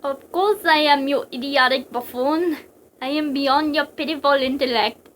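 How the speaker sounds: scornful, projected villain voice; theatrical, contemptuous villain; haughty psychic villain. Acted. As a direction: sneer down at a lesser opponent.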